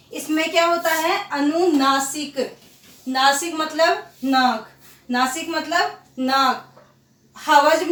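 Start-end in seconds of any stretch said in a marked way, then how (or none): 1.3-6.7 slow explaining. Shown as a demonstration. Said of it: "हवा नाक और मुंह दोनों से".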